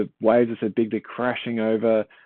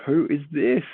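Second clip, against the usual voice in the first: amazed question; 7 semitones higher than usual. Retold or imitated. They're like, amazed.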